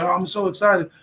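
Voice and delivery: mock excitement. Coach showing good excitement, mildly acted excited voice. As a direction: act out being happily worked up. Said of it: "You may be excited".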